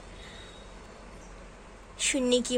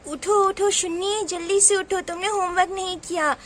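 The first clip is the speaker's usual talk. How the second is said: mildly raised scolding voice; cross mother; 5 semitones higher than usual. Acted. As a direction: urge the child up crossly. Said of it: "mummy बहुत गुस्से में है". (थोड़े गुस्से में डाँटती माँ)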